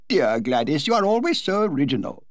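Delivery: murmured. Acted. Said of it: "murmured the Duchess".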